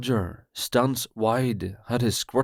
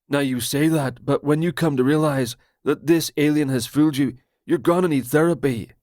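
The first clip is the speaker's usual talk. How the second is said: higher, louder, fast conspiracy rant; paranoid Roger; 3 semitones higher, 4 dB louder, faster than usual. Acted. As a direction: blurt it out like a betrayed friend.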